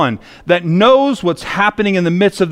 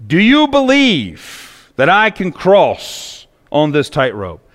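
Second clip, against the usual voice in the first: Blondin asks the crowd; slower than usual. Acted. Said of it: "Blondin asks the crowd".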